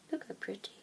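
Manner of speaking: whisper. Real, not acted. Whispering over tarot cards.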